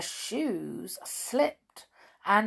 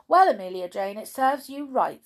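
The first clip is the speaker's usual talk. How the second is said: smug told-you-so; 4 semitones higher, 6 dB louder, faster than usual. Acted. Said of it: "said the Pink Rabbit".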